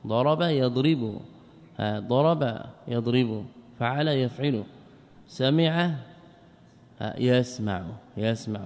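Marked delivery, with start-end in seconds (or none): 0.1-3.4 ضرب يضرب spelled out slowly, daraba yadribu; slow grammar drill. Shown as a demonstration. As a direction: recite ضرب يضرب slowly as a verb pattern. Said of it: "من باب ضرب وسمع". (نطق تعليمي بطيء لضرب يضرب)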